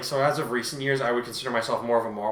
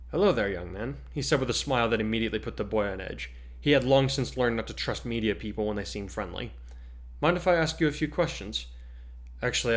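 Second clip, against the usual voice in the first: steady storyteller narration with voiced characters; dramatic story reading. Host reading her fan fiction chapter to listeners, dramatic narration. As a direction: read the chapter like an audiobook.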